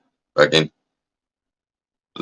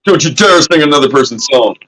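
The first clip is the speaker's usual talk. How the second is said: mock copyright enforcer; 10 semitones higher than usual. Streamer mocks a label forbidding singing, high mock squeal. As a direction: squeal it like an outraged label exec. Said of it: "They'd be like".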